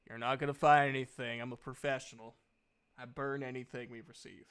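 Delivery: loud and quick at first, then calmer; a pro who knows he's beaten; smug prisoner. Acted. Captured bandit boss to the searcher: loud, smug taunt.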